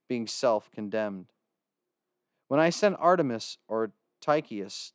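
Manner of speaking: measured Bible reading voice; scripture reading. Acted. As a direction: read the scripture aloud with reverence. Reads scripture aloud.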